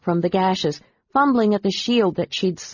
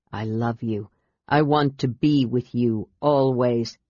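sadly; 5 semitones lower than usual. Acted. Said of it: "said Tanis sadly".

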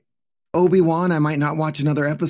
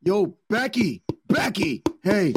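whiny pleading; 4 semitones higher, slower than usual. Pretend. Spider pleading at the door.

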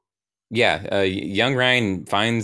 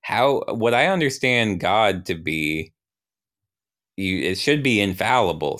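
quizzical. Acted. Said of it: "Ryan's still quizzically looking like".

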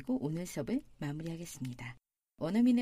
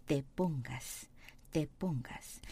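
very slow, lower, softer "te pongas"; slow model form; 6 semitones lower, 6 dB quieter, much slower than usual. Shown as a demonstration. Teacher drilling the form for students, slow. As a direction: stretch out "te pongas" for learners. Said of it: "teacher isolates form".

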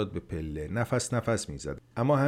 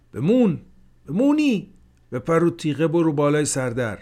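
فریاد زدن؛ داد خیلی زیر و بلند؛ با عجله صدا بزن؛ فریاد حاجی به بمان; 7 semitones higher, 7 dB louder than usual. A narrator's reading. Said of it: "حاجی فریاد زد".

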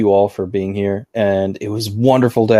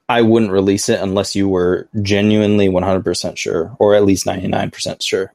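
voice cracking. Real, not acted. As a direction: voice giving out mid-sentence. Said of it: "Ooh, there goes my voice".

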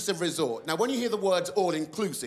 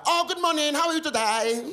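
put-on high, sing-song generic Asian accent; 11 semitones higher, 4 dB louder than usual. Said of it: "generic sort of Asian accent".

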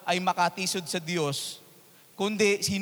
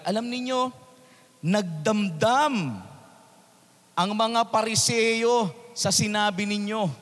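disciples quoted; 3 semitones higher than usual. Retold or imitated. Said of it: "ito sinabi ng mga alagad".

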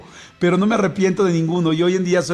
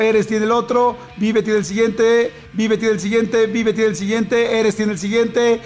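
slow, drawn-out vote calls; excited tally; 3 semitones higher, slower than usual. Real, not acted. Host tallying listener votes in a tight race. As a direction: call out each vote like a close race.

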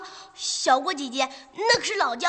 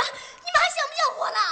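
indignant scolding; 12 semitones higher, much faster than usual. Acted.

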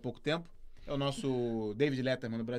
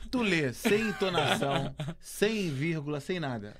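reading slowly; slower than usual. Shown as a demonstration. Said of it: "Lê, calma, lê devagar".

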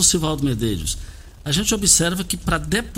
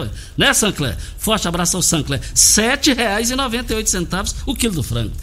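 punchy radio ad read; hard sell ad. Acted. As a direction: sell the deals with energy. Host reads supermarket ad.

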